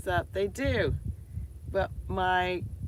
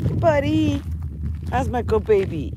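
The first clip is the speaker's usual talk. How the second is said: squeaky praising a dog; 6 semitones higher, 9 dB louder than usual. Real, not acted. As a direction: gush over the dog. Greeting her dog.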